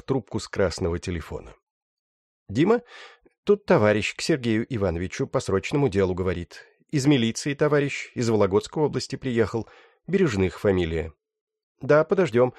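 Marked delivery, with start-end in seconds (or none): 2.5-12.5 higher, brisk office-lady voice; lightly voiced older woman on the phone; older receptionist on the phone.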